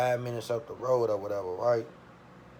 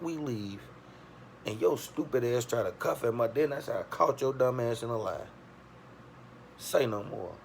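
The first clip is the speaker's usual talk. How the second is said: scornful inner voice; 2 semitones higher than usual. Retold or imitated. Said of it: "thinking in my head".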